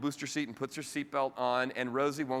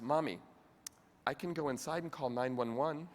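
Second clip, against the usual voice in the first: put-on calm child; 4 dB quieter than usual. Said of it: "very calmly says".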